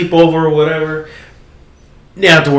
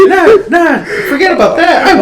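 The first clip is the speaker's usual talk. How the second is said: mock dismissive; 4 dB louder than usual. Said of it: "She's like".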